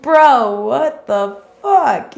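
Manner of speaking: slow, drawn-out exasperated "bro"; mock exasperation at a copycat; fed-up disbelief. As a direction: drag it out like you can't believe this person. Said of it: "you're just like".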